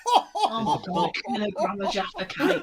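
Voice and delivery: real amused laughter through the words; laughing disbelief. Real, not acted. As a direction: laugh at the absurd amount.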